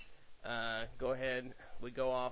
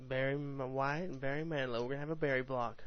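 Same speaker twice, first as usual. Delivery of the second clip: radio DJ voice; faster than usual. Pretend. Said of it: "I gotta get my radio voice on".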